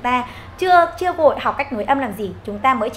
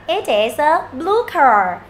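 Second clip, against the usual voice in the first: "It is a" joined a little more quickly; a slightly brisker run through the sentence; quicker reading; 3 semitones higher, much slower than usual. Shown as a demonstration. Teacher speeding up the model, a touch quicker. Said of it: "Đọc nhanh".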